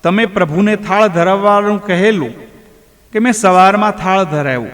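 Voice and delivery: put-on a boy telling his father, lightly tearful; crying voice. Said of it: "ધનાએ રડતા અવાજે કહ્યું".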